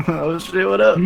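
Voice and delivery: high loud meme yell; meme catchphrase shout. Pretend. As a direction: blurt it like the meme kid. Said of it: "turned into that boy".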